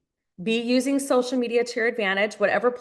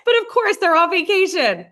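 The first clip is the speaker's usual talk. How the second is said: high, louder words through laughter; laughing; 10 semitones higher, 6 dB louder than usual. Real, not acted. Coach still laughing while excusing the prospect. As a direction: talk while still giggling.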